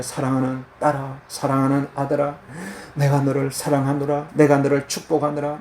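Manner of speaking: put-on a gentle father blessing his children; God's loving voice. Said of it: "이런 소리가 들려야 돼요".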